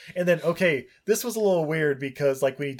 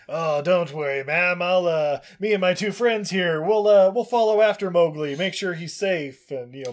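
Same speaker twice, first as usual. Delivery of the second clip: raised, hearty storybook hunter; louder, higher mock reassurance; reassuring hunter; 5 semitones higher, 5 dB louder than usual. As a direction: put on a bluff helper's voice. Voices village hunter reassuring mom.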